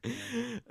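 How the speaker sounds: short high giggle; a squeaky burst of laughter. Real, not acted. Laughing at joke.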